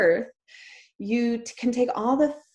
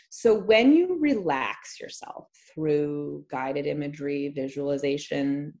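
hypnosis voice. Shown as a demonstration. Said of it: "me using my hypnosis voice like this".

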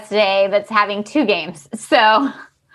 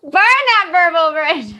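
amused; 7 semitones higher, 4 dB louder than usual. Real, not acted. Repeating joke while laughing.

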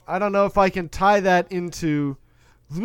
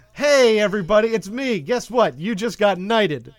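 mock gangster king; 2 semitones higher, 10 dB louder than usual. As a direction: ham up a cocky kingpin. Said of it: "Now do him from King of New York".

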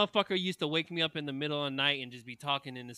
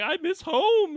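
high, louder whiny mimic; mock whiny recruit; 7 dB louder, slower than usual. Mocking homesick trainee, high whiny mimic. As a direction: whimper it like a homesick kid.

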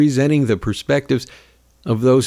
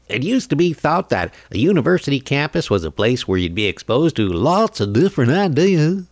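DeSantis voice; 3 semitones higher than usual. Retold or imitated. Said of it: "I'm gonna do his voice".

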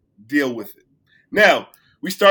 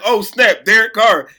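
surprised; 3 semitones higher, 5 dB louder than usual. Retold or imitated. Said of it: "I'm like".

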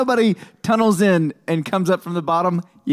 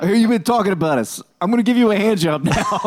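mobster voice; 2 semitones higher than usual. Acted. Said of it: "Why is that Italian?".

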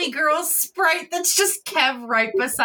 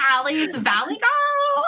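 put-on slow, raised Valley Girl question; Valley Girl accent; 5 semitones higher, slower than usual. Player echoing the tease, mock Valley Girl accent. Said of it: "That's just like".

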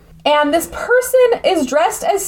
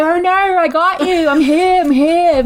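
put-on Australian accent; 5 semitones higher than usual. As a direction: slip into a light Australian accent. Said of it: "her Australian accent starts slipping through".

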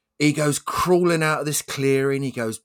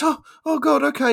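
higher, louder whiny resignation; resigned bloke; 6 dB louder than usual. Acted. Bloke gives in to the bear, a high whiny voice. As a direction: whine that there's no way out.

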